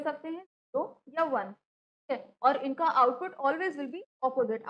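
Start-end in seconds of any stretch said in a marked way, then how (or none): 2.4-4.7 slow, deliberate, each word weighed; slow dictating teacher voice; slow emphasis. Shown as a demonstration. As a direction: lay the rule down slowly for the class. Teacher stresses key rule.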